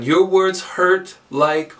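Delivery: slow, measured, left unfinished; open-ended lead line. Shown as a demonstration. Teacher starting students on a lead line, open-ended. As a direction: spell out the prompt slowly, LIKE left open.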